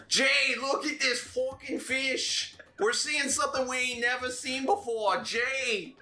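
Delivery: high, excited Boston fisherman voice; hollering at Jay in a thick Boston accent. Acted. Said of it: "I gotta do a Boston accent now".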